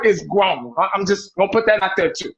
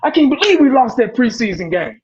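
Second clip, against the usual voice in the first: higher-pitched mock outburst over a lost game; mock overreaction; 5 semitones higher than usual. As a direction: ham up a fan losing it over preseason. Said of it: "Not once have we got on and said".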